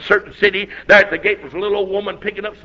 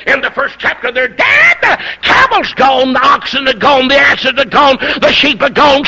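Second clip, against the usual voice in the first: driving, raised preacher's cadence; forceful preaching; 2 semitones higher than usual. Acted. Preacher listing Job's losses to the congregation, forceful. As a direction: hammer each phrase, building to a shout.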